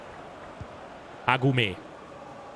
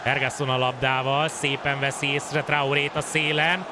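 sports commentary. Acted. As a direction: call the build-up, rising fast. Live play-by-play building.

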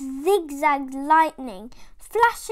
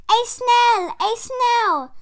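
much higher and louder, alarmed teacher; shocked shriek; 10 semitones higher, 9 dB louder, slower than usual. Acted. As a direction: shriek at a snail in class.

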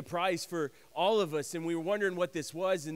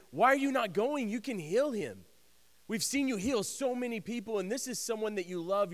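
higher-pitched, puzzled protest; urgent questioning; 4 semitones higher than usual. Acted. Disciples question Jesus' delay.

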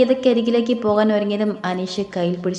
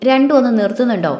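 louder, sharp scolding snap; stern scolding; 3 semitones higher, 6 dB louder than usual. Acted. Brother scolding the two bickering siblings, loud and stern. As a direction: cut the squabbling short, firmly. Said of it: "ഉണ്ണൊരു ശാസനയോടെ പറഞ്ഞു".

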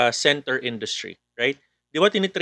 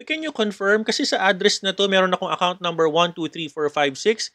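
scam caller; 2 semitones higher than usual. Acted. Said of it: "tatawag siya ulit".

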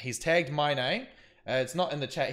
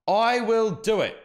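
slow, louder, higher threatening repeat; mock menacing threat; 7 semitones higher, 6 dB louder, slower than usual. Streamer reading out a rival's threat, mock menacing. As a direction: press on the word I as a menacing warning. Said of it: "And he says".

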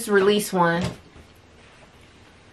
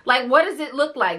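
mock disbelief, higher; incredulous question; 5 semitones higher than usual. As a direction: ask it like it makes no sense. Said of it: "And she's like".

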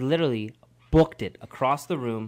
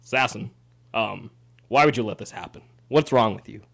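lightly voiced stern, bassy scolding; a hint of a disappointed father, measured pauses; Zane; 4 semitones lower than usual. Host imitating the producer scolding Sasson, lightly bassy. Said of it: "this is Zane's voice to you".

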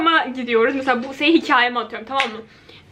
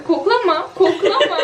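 giggling through the words; pleading through giggles; laughing; 4 semitones higher, 3 dB louder than usual. Real, not acted. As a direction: laugh while you tell her off. Laughing while smelling hair mask.

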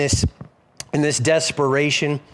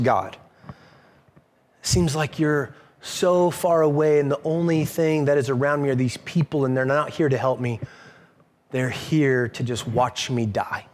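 despairing prayer; 5 semitones lower than usual. Acted. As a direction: let the voice fall away as if dying. Voicing David's despairing prayer.

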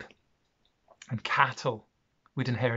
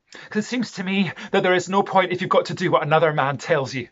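loud, raised, indignant argument; angry protest; 4 semitones higher, 7 dB louder than usual. Acted. Rich man protesting to Jamie at being given orders, angry. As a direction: push the point out forcefully. Arguing against being told what to do.

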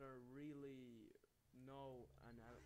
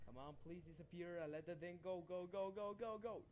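urgent pleading; 4 semitones higher, 4 dB louder than usual. Real, not acted. Urging a game object.

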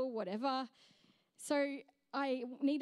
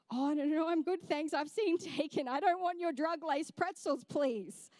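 polite refusal; 2 semitones higher than usual. Retold or imitated. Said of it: "but I'm thinking it".

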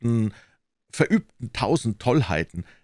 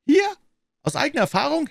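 surprised; 12 semitones higher than usual. Acted. Surprised echo of question.

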